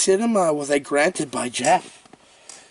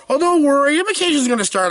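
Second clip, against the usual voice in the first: imitating mom; 9 semitones higher, 3 dB louder, faster than usual. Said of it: "The mom tells the daughter".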